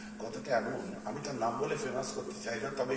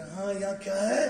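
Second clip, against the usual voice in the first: mocking an opponent; 5 semitones higher than usual. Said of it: "বলে".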